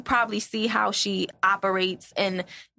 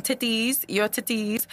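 put-on African accent; 2 semitones higher than usual. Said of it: "African accent".

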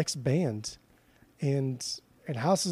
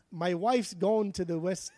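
accidental Australian accent; 4 semitones higher, 4 dB quieter than usual. Shown as a demonstration. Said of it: "that's coming out Australian again".

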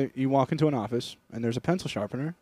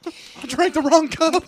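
higher, slow, goofy voice; slow mock lament; 13 semitones higher, 5 dB louder, slower than usual. Old man in a skit who drank the wrong cup, slow mock lament. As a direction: draw it out like a dying old man. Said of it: "You're like".

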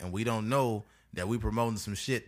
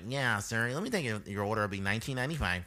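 put-on fast nasal drive-thru teen; nasally teenager. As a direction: rattle it off through the nose. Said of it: "some nasally sounding teenager".

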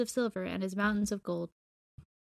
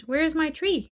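higher, louder demanding cry; impatient exclamation; 6 semitones higher, 4 dB louder than usual. A narrator's reading. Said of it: "The emperor exclaimed".

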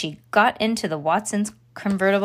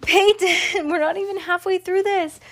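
high, loud complaint with a laugh in it; exasperated protest; 9 semitones higher, 4 dB louder than usual. Real, not acted. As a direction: scold a dozing listener, half amused. Protests as listener falls asleep.

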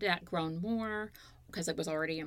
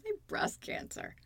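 laughing while telling. Retold or imitated. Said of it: "She, she was cracking up".

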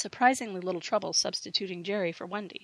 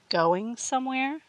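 menacing; 5 semitones higher, slower than usual. A narrator's reading. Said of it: "asked Karen from behind him".

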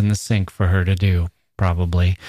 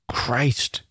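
hushed, forced little curse; spat aside; 5 semitones higher, 5 dB quieter than usual. A narrator's reading. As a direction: curse under the breath, pitched up. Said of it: "spat curse, an aside not meant for her".

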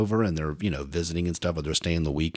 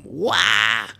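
retold scream; 2 semitones higher, 7 dB louder than usual. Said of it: "they both scream".

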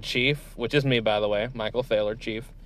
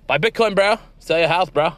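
bro voice; 5 semitones higher, 3 dB louder than usual. Acted. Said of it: "valley girl who loves Bitcoin".

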